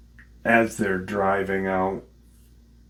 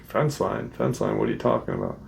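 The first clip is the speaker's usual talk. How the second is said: playing dumb; faster than usual. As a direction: play dumb, like you've never heard of any fence line. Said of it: "they're both playing dumb".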